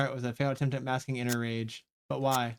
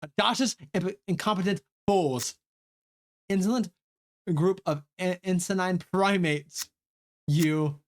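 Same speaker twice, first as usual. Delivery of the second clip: scorn them from above; commanding rage; 5 semitones higher than usual. Acted. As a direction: regal villainous fury. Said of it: "her commanding rage".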